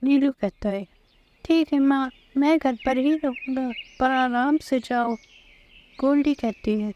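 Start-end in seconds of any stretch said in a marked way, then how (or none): 1.4-5.2 put-on lightly raised boy's voice, obedient; a good little son reassuring his mother; little son Neelu. Son telling his mother to go carefully, lightly higher child voice.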